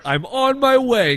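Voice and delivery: a hint of a small child reading; toddler's voice. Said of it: "like, a ten-year-old toddler's voice".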